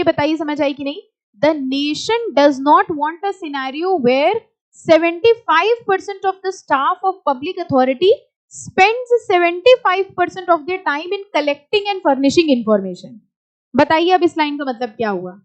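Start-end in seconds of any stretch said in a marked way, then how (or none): 1.4-13.2 slow, deliberate read of the text; slow reading aloud. Shown as a demonstration. Teacher reading the law slowly to the class. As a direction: read each word out for the class. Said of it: "ये line ध्यान से पढ़िए".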